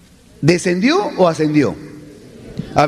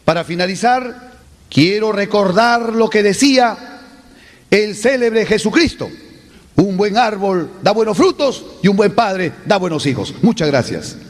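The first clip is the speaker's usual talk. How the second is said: speeding up; 2 semitones higher than usual. Shown as a demonstration. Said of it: "acelera las últimas palabras".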